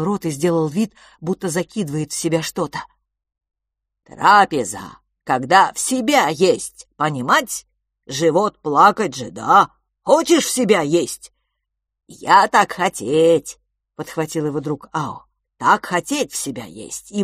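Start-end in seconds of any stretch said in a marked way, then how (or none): 4.0-11.3 louder broken-speech creature; cheerful creature voice. Acted. Creature announces mealtime to the twins, cheerfully. 12.1-13.6 louder, slow, greedy eagerness; eager creature. Acted. Creature eagerly agrees about food.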